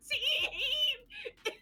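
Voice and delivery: very high, drawn-out mock wail; choked-up overwhelm. Overwhelmed fan being escorted away, mock choked-up wail. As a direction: imitate a belated squeak, half laughing. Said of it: "I couldn't get the teen out".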